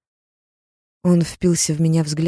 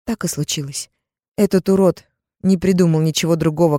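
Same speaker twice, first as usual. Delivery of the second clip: plain reading voice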